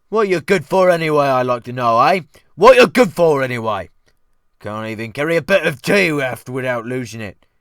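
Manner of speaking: loud Cockney scolding; indignant cook. Acted. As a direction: rant at the useless boy. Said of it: "consuming with indignation, real or feigned".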